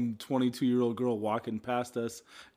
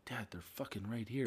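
hushed, urgent warning whisper; 10 dB quieter than usual. Retold or imitated. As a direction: whisper it fast so kids can't hear. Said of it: "I'm like".

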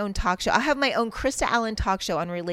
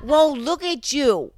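going ghetto; 5 semitones higher, 6 dB louder, slower than usual. Acted. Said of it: "No, I'm going ghetto now".

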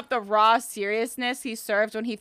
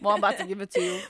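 mock low dom voice; 5 semitones lower, 8 dB quieter than usual. Co-host playing the dom to her partner, low and soft. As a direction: purr it as the dom.

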